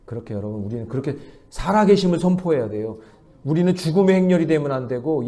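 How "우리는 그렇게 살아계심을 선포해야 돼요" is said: ordinary delivery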